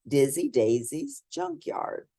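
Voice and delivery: put-on lively read-aloud voice for children; storybook reading. A narrator's reading. Reading a picture book aloud to children, lively storybook narration. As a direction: bring the bedtime story to life for little listeners.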